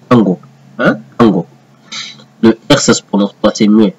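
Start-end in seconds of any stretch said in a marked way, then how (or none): 0.1-0.4 Kango with a hard K and open a, kan-go; Hebrew pronunciation. Shown as a demonstration. Teacher showing students the Hebrew pronunciation Kango. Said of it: "ça se prononce Kango". 1.2-1.4 Kango with a hard K and open a, kan-go; Hebrew pronunciation. Shown as a demonstration. Teacher showing students the Hebrew pronunciation Kango. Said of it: "ça se prononce Kango".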